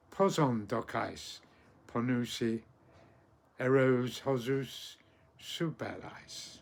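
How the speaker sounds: measured Ancient Greek verse, phrase by phrase; poem recitation. Acted. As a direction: recite with pauses, lifting the cries.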